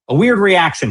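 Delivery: scornful stress on weird; mocking quote. Host quoting the vice president back, scornful. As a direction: throw his words back with disdain. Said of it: "he says".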